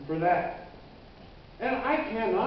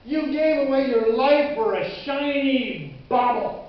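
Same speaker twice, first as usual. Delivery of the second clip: louder jeering scorn; taunting, emphatic mockery; mocking taunt; 3 semitones higher, 5 dB louder than usual. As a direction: ridicule a fool's bad bargain. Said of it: "it started cackling and laughing".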